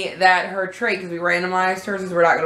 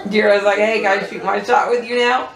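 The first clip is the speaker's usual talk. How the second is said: laughing. Retold or imitated. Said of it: "standing here laughing".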